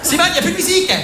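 calling out. Acted. Telling Simone the music has stopped, calling out. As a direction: get through to someone who isn't listening.

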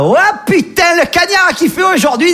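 put-on a sunburnt polar bear with a thick Marseille accent. Polar bear with a Marseille accent shouting about the heat. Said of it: "les ours blancs ont chopé l'accent marseillais".

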